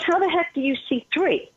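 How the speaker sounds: high-pitched mock disbelief; astonished retold question. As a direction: imitate a baffled friend, pitched well up. Astonished friend in retold talk.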